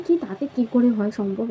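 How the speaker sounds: mock-astonished "how is that possible"; retold disbelief. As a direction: act out a mildly incredulous reply. Retells her disbelieving reply to caller.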